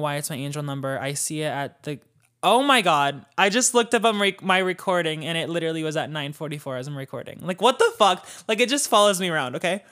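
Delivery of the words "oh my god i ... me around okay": real sudden surprise, louder; freaking out at the coincidence. Real, not acted. Noticing 9:44 while recording.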